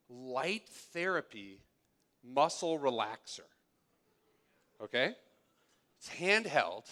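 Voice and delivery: mock wide-eyed infomercial host; sarcastic sales pitch. Preacher to congregation, mock QVC pitch, dripping sarcasm. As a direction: sell it with tongue in cheek. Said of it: "can you hear the sarcasm in my voice".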